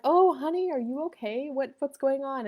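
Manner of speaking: concerned mother. Retold or imitated. Mother to daughter after a bad dream, concerned. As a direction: check gently on an upset child. Mother comforting upset child.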